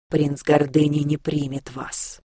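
slow, hissed demon warning; hissing demon. Acted. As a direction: hiss it slowly like a demon. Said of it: "прошипел ближайший к нам демон".

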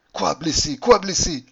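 breathless, rising to a loud high gasp; a hint of panting panic. A narrator's reading. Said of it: "haletai-je".

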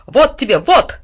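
furious dog beating the cat, shouting; angry dog's growl. A narrator's reading. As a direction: hit each word like a blow. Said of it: "злобно рычал Тилу".

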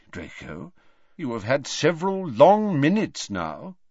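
put-on calm, wry old wizard; lightly voiced amused old headmaster; a touch of dry amusement; old headmaster Dumbledore.

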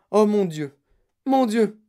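loud, high "oh dear" outcry; alarmed exclamation. Acted. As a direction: exclaim in sudden worry.

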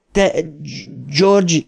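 high-pitched frightened cry, halting; acted scream, broken before the name. A narrator's reading. Bill screams at his dead brother, halting high cry. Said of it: "sikoltotta Bill".

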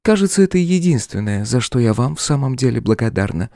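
высокий, ровный голос демоницы; холодно отвечать господину; демоница Лилиан, спокойная. A narrator's reading. Демоница дерзит королю. (спокойно, с вызовом)

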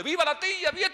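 very high, very loud cheer; festive cheering. Retold or imitated. Cousins cheering the old aunts, loud joyous shout. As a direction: shout it like a party crowd.

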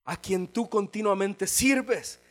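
anxious king asking sadly if God saved him; grieving king calls down to Daniel, sad and slow. Acted. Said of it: "Dice que le decía con voz triste".

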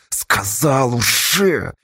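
slow, drawn-out hoarse croak; fearful croak. A narrator's reading. Bound Astasha answers his captors, croaking through fear. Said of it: "сквозь страх прохрипел Асташа".

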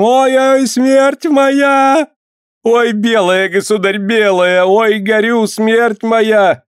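high, loud scream of pain; screaming in agony. Acted. Healer on the fire screaming to the boyar. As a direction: shriek as if burning. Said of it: "закричала не своим голосом".

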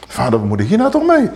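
quick, helpless plea; a lightly voiced Moses asking God for help; Moses pleading.

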